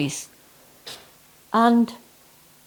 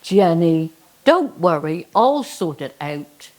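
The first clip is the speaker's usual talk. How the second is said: lower, booming Lord from the clouds; deep voice of the Lord; 5 semitones lower than usual. Acted. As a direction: speak down from the sky, deep and calm. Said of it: "the voice comes again".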